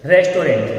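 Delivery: रेस्टोरेंट said the common way, res-to-rent with full o and nt; the everyday mispronunciation रेस्टोरेंट, every syllable spelled out; रेस्टोरेंट said the common wrong way, res-to-RENT; wrong pronunciation. Shown as a demonstration. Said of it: "ज्यादातर लोग इस word को क्या बोलते हैं".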